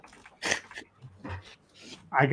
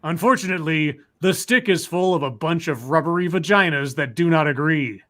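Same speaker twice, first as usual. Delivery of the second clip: lightly voiced evil genius, half laughing; a hint of a gloating supervillain reading his plan; unhinged villain. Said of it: "I have to do my evil voice".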